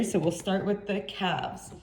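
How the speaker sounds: muffled, phone mic covered; muffled voice far from the mic. Real, not acted. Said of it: "sorry if I sound muffled here".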